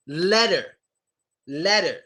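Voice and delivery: "letter" said like "ledder"; flapped T. Shown as a demonstration. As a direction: turn the double T in "letter" into a D. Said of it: "it always gets a D sound".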